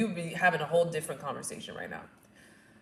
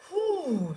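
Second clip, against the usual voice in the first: high breathy "whew"; exhaled whew; 10 semitones higher than usual. Retold or imitated. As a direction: blow out through a contraction. Breathing through contractions.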